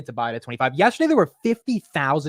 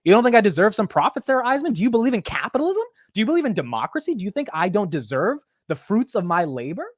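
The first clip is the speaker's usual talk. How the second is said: rising higher and louder in mock outrage; hammed-up CEO rant at the interviewer; mock-indignant Michael Dell; 3 semitones higher, 3 dB louder than usual. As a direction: play Dell defending his profits, getting worked up. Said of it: "I'd have been like".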